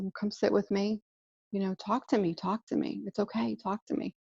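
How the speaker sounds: mother coaxing her crying son to talk, softly; gentle coaxing. Retold or imitated. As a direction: coax him gently to open up. Mother soothing sobbing son.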